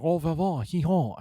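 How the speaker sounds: lightly put-on French accent, as a joke; mock French accent. Retelling how Flair made him do French, in a mock French accent. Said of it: "He's like".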